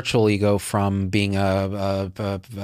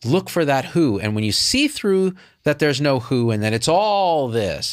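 mock teacher; 5 semitones higher than usual. Parodying a nondual teacher.

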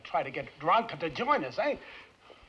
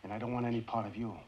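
heavy low-pitched rejection; drunken refusal; 7 semitones lower, 5 dB louder than usual. Acted. Drunk refuses hush money.

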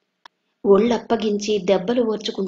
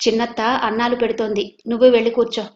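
dry; 3 semitones higher, 3 dB louder, faster than usual. Acted. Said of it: "అంది సుందరమ్మ పొడిగా".

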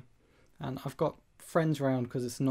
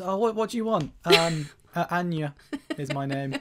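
mock cafe exchange; 4 semitones higher, 4 dB louder than usual. Acting Costa barista exchange.

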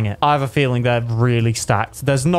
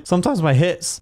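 higher, with the voice cracking; 4 semitones higher than usual. Real, not acted. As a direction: let the voice crack on the exclamation. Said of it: "that wasn't a voice crack".

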